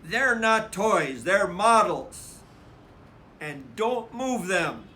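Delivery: offended big brother standing firm; insisting. Acted. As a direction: correct her hotly. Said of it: "Brother insisted".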